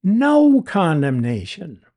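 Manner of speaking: emphatic "No", held long before "condemnation". Shown as a demonstration. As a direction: lean hard on "No" in "No condemnation". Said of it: "Greek idiom for emphasis".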